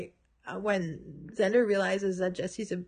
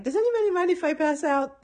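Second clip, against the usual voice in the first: quoting Willow; 7 semitones higher, 3 dB louder than usual. Retold or imitated. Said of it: "and then she's like".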